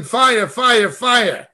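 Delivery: understated mock revival cry; mock yelling. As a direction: imitate a preacher crying fire, held back.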